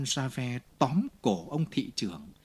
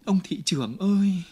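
a loud, desperate cry, higher; 7 semitones higher, 5 dB louder than usual. A narrator's reading. Fantine crying out to the mayor as she is seized. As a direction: call out for help in panic. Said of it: "Chị kêu lên".

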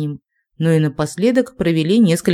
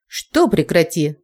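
flaring up; slower than usual. Acted. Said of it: "взвилась Линда".

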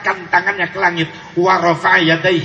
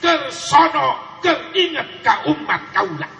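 tearful longing; 8 semitones higher, slower than usual. Acted. Prophet weeping for his people.

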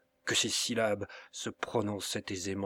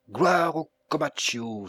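loud, higher cry of glory; exclaiming; 5 semitones higher, 5 dB louder than usual. A narrator's reading. Felipe at the door, cheering his master loudly. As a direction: hail the master to the sky. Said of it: "s'écria-t-il".

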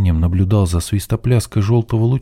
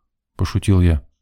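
ordinary delivery, nothing marked

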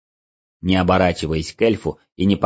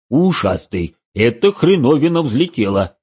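excited; 4 semitones higher, 4 dB louder than usual. Acted. Motya shouts at liftoff.

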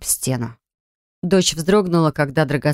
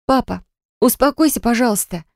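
higher, scared begging; pleading daughter; 6 semitones higher than usual. Acted. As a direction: plead with him, voice rising in fear. Frightened daughter pleads with father.

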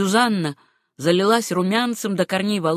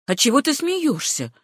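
rough question; 7 semitones higher than usual. A narrator's reading. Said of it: "почти грубо спросила Руфь".

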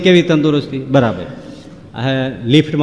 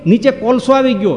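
retold yell; 10 semitones higher than usual. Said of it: "રાડ પાડી ગયા".

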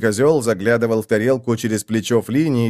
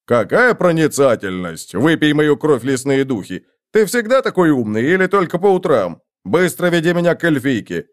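раздражение; 2 semitones higher than usual. Acted. Раздражённый Флини огрызается на героя.

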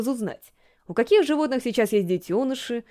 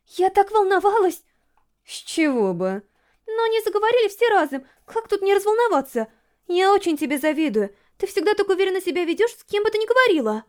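higher, bubbly schoolgirl Yurika chattering; eager girl gushing about the zoo trip; excited friend planning a picnic, higher and lively; Yurika's voice; 8 semitones higher than usual. A narrator's reading. Yurika flustered after boys.

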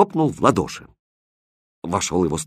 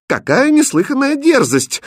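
high, loud outraged cry; scandalised at the insult; indignant; 6 dB louder than usual. Acted. First lady scolds the prince, loud indignant outrage. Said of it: "возмутилась первая дама".

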